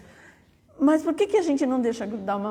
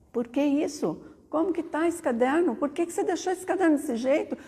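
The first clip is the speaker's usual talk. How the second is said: higher-pitched, exasperated teacher's scolding; a retold cross teacher's rebuke, higher; 6 semitones higher than usual. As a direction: scold the boy over his ruined notebook. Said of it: "eu fiquei brava".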